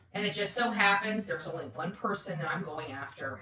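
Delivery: slow, deliberate, each word laid down; slow pointed repeat. Real, not acted. Repeating her point to the audience, slow and pointed. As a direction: spell it out slowly so it sinks in. Repeats line slowly for emphasis.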